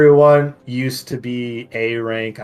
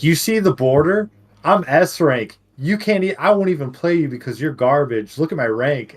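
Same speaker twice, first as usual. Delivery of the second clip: imitated boasting; 3 semitones higher than usual. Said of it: "this guy on my team got all pissed off".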